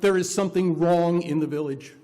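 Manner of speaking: loud, ringing proclamation of the song line; crying out. Retold or imitated. Minister to congregation, echoing the song, loud outcry. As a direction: call it out to the congregation like a lament. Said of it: "As the song The Village cries out".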